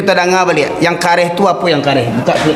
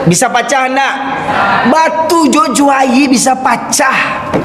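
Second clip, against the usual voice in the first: full-force sermon shout about the hard stone; forceful preaching; 4 semitones higher, slower than usual. Acted. Preacher drives home stone image.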